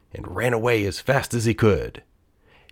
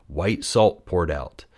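usual speaking voice

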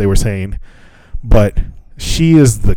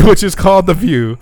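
laughing while repeating it; amused repeat through a laugh; 8 semitones higher than usual. Real, not acted.

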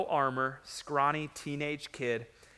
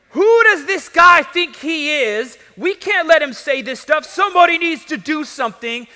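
very high, loud, acted outrage; rally the others in loud disbelief; indignant outburst; 11 semitones higher, 14 dB louder than usual. Acts out David's indignant outburst.

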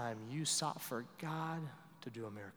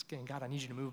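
whispered prayer; 8 dB quieter, much faster than usual. Retold or imitated. Voiced desperate prayer.

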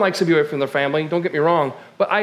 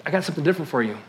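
God's quiet voice; 4 semitones lower, 6 dB quieter, much faster than usual. Retold or imitated. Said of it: "he was saying".

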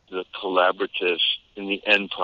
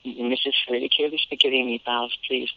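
higher-pitched mock Boston kid; mocking Boston accent; 5 semitones higher than usual. Kids making fun of the newcomer's talk, mocking Boston accent. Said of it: "making unrelenting fun of the fact".

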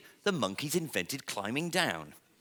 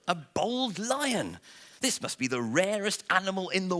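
amazed tourists; 8 semitones higher than usual. Acted. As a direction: gasp it out in wonder. Tourists amazed at bald lion.

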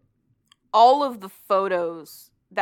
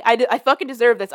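pleading; 3 semitones higher, 9 dB louder, faster than usual. Retold or imitated. Ghost begs to be hit.

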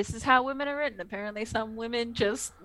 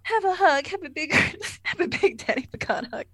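mock cooing; 6 semitones higher than usual. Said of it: "Tasha's like".

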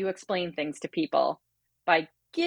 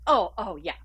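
flustered doctor; 4 semitones higher, slower than usual. Retold or imitated. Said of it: "And she goes".

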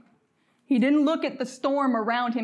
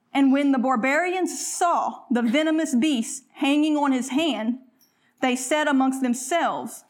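slow, lifted scripture reading. Acted. Preacher reading Acts to the congregation, slow and lifted. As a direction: read the Bible passage out, measured and slow.

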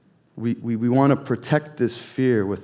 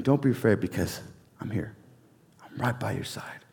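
much softer, fading into a whisper; soft reassurance; 2 semitones lower, 8 dB quieter than usual. Retold or imitated. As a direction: hush it like comforting a scared child. God comforting the frightened.

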